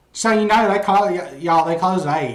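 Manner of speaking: put-on very thick, high, broad Southern accent. Retelling what a woman on the course said, in a thick Southern accent. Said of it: "very thick Southern accent".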